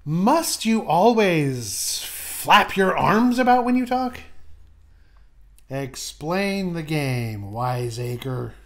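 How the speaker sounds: slow, low, disdainful scold; stern scolding character. Acted. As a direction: drag it out like a weary critic. Second character scolds the host.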